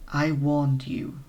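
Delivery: slow, menacing whisper-voice; slow ominous voice. Acted. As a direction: say it like a haunting warning. Mysterious voice speaks.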